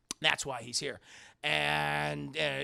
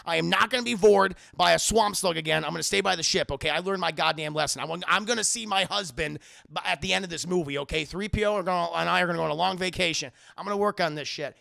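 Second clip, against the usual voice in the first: loud grumpy R2 voice; 7 dB louder, faster than usual. Retold or imitated. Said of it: "R two's like".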